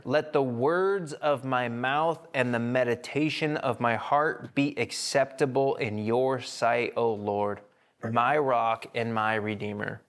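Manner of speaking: slow, reverent psalm reading; prayerful reading. Acted.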